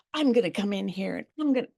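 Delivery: fast, bossy barging in; pushy takeover. Shown as a demonstration. Mother barging into daughter's messy house, bossy. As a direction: rush in and take charge. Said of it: "If you want help versus".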